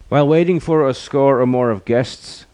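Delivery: high-pitched hostess voice. A narrator's reading. Hostess entertaining her waiting guests, high hostess voice. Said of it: "the hostess said".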